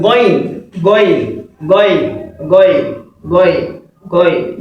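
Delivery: "going" as the Arabic letter Ghayn, with a rounded o-like vowel; "going" said ghoyn, modelled for repetition; correct Ghayn pronunciation. Shown as a demonstration. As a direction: drill "going" singly, falling each time. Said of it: "the correct pronunciation is what".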